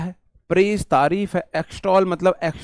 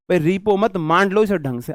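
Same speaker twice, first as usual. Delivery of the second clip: louder, higher teasing rebuke; half-serious telling off, louder; mock scolding; 4 semitones higher, 5 dB louder than usual. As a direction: scold her for weeping over the dough, in fun. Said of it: "आपने फटकार लगा दी".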